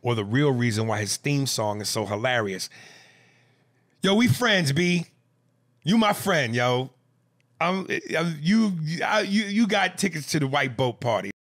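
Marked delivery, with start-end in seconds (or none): 4.0-11.3 excited shouting. Real, not acted. Host shouting friendship at emailer.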